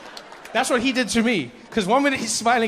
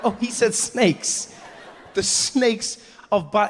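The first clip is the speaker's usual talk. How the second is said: slow, higher, laughing realization; slow dawning dread; 4 semitones higher, slower than usual. Retold or imitated. Comedian realizes the show means snakes, slow and dawning. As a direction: let the horror sink in slowly.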